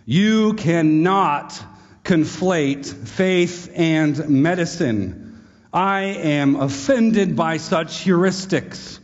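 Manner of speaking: slow, lofty voice of an offended student; mock humanist student. Preacher mocking the philosophy student with slow lofty words. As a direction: play the pompous student, dragging the words. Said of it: "He reaches his conclusion".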